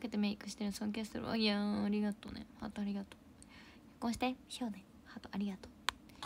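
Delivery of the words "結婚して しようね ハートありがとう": soft, coy whisper; shy whisper. Real, not acted. Streamer coyly whispering back to a proposal. Shy reply to marriage joke.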